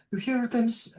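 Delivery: high, faltering attempt at French accent; failed French accent. Old mother speaking to daughter, shaky French accent attempt. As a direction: try a weak French accent. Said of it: "my French accent isn't coming to me".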